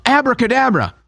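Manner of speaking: high sorceress casting a spell; mock witch spell. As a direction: cast it like a witch. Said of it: "She's a witch".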